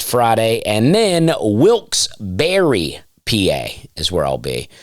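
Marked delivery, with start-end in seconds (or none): 1.4-3.0 "Wilkes-Barre" slow, ending like berry; careful pronunciation. Real, not acted. Comedian plugging next show, "Wilkes-Barre" slowly as wilks-BERRY. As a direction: draw out "Wilkes-Barre", second part as BERRY. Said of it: "received about my pronunciations".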